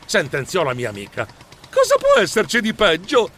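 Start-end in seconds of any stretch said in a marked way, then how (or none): 1.7-3.3 high fretful question; worried high-pitched voice; anxious alarm. Acted. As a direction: ask it in rising dread. Anxious hero hears it is worse.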